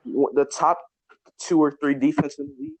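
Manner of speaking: muffled, like through a wall; words dulled as if behind a wall. Real, not acted. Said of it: "you sound a little muffled".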